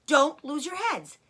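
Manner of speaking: stern father giving orders; firm orders. Acted. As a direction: keep the cubs in line. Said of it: "ordered Mister Fox".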